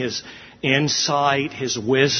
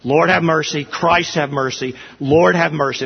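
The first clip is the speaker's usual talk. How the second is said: pleading liturgy; 3 semitones higher, 4 dB louder than usual. Retold or imitated. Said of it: "that verbiage in the prayer of confession".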